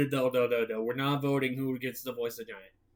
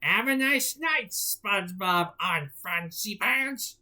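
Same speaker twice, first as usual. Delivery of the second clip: mocking; 5 semitones higher, slower than usual. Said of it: "Squidward mocked".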